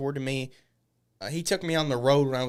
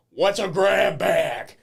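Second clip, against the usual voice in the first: whiny ask; 5 semitones higher, 8 dB louder, much slower than usual. Retold or imitated. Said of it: "I'm asking".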